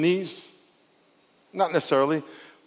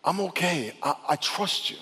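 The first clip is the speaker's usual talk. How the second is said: soft prayer; 7 dB quieter than usual. Shown as a demonstration. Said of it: "tell, tell God".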